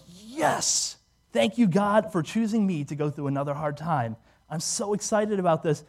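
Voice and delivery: put-on thankful delight; mock elation. Believer thanking God for a hard time, mock elation. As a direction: exult as if hardship were a prize. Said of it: "go and be like".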